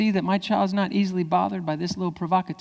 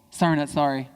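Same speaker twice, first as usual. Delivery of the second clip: mock insincere sorry; lightly sarcastic non-apology; fake apology. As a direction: toss off an apology you don't mean. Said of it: "don't do a fake apology".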